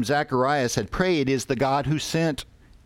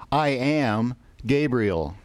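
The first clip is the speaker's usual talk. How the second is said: slow, weighty "I am Gabriel" with the stress on "I"; emphatic; 2 semitones higher, slower than usual. Acted. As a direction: lean on "I" as the angel declares himself. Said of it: "the angel's reply is just as emphatic".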